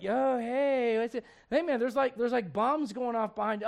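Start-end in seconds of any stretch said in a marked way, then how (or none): 0.0-1.2 laid-back dude. Retold or imitated. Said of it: "And they're just like".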